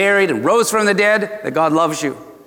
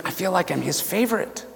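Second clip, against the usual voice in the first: soft, playful confidence; confiding a secret; 2 semitones higher, 7 dB quieter than usual. Pretend. Preacher lets congregation in on a secret, hushed. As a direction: drop the volume as if sharing a secret. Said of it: "let you in on a secret".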